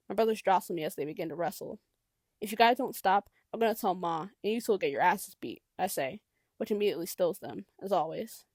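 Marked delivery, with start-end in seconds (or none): 2.4-5.6 louder, firm threat; stern warning. Acted. Older brother warning wrestling siblings, loud stern threat. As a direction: cut through the noise with a warning.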